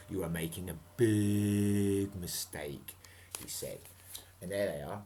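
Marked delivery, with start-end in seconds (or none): 0.1-3.0 captain's warning. Acted. Captain warns the children.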